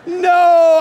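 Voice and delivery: loud flat refusal. Retold or imitated. Pastor refusing God's prompting loudly. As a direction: bark the no back. Arguing on front steps.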